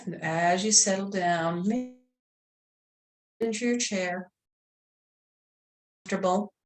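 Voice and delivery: calm meditation voice, long pauses between phrases; guided meditation. Real, not acted. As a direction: gently guide them into relaxation.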